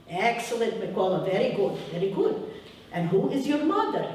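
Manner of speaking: put-on approving teacher voice, Ukrainian accent; praising teacher in Ukrainian accent. Teacher praising boy Mikola in class, Ukrainian-accented approval. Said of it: "I'll say it with my accent".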